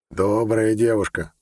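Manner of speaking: slow, dry sarcastic remark; mock praise, drawn out. Sinerat remarks on the girl in a slow, sarcastic tone. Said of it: "саркастически заметил Синерат".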